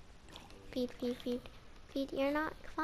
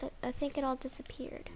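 whisper; 7 dB quieter, faster than usual. Real, not acted. Whispered regret.

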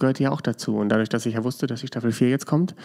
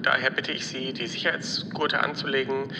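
calm airline captain over the intercom; captain announcement; 5 dB quieter than usual. Acted. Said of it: "hier spricht Ihr Kapitän".

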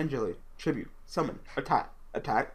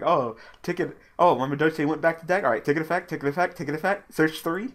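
imitated excited player; 5 semitones higher, 4 dB louder than usual. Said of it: "where it's like".

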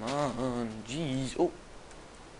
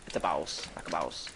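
much lower, jokey voice; deep, low joke echo; mock deep voice; 11 semitones lower, 3 dB quieter than usual. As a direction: drop your voice way down.

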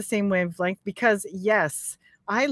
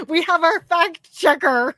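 laughing; 8 semitones higher, 5 dB louder than usual. Real, not acted. Laughing about arrival.

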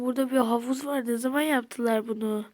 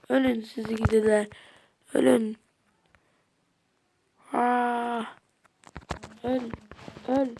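angry shout. Real, not acted. Attacking mobs.

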